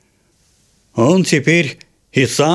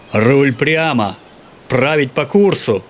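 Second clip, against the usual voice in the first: barked order; 2 semitones higher, slower than usual. Acted. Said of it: "гаркнул мотыль".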